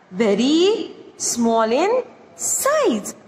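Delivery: very small in size, slowly and deliberately; slow, spelled-out repeat. Shown as a demonstration. Teacher repeating the meaning for students, slowly. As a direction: stretch every word so students catch it. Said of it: "Tiniest means very small in size".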